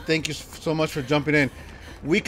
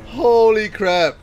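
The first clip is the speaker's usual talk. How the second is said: surprised exclamation; 5 semitones higher, 8 dB louder, slower than usual. Real, not acted. Still reacting to scare.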